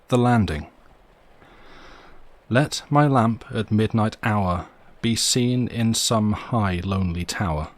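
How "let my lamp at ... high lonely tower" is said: slow, measured reading of a verse epigraph; slow read poem. Acted. Narrator opening the chapter with a Milton quote, read slowly. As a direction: let each word of the quote settle.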